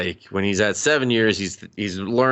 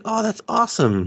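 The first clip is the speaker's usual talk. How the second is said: high, eager imitation; retold enthusiasm; 13 semitones higher than usual. Man told she wrote the book, enthusiastic. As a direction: pitch it high, mildly gushing.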